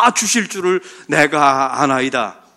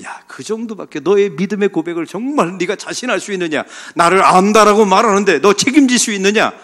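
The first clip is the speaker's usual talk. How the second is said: mock rebuke; 4 semitones higher, 5 dB louder than usual. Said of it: "그렇게 말씀하실 법한데".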